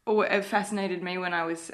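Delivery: holding back tears while speaking; teary. Real, not acted. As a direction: voice high and tight with tears. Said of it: "a bit teary here".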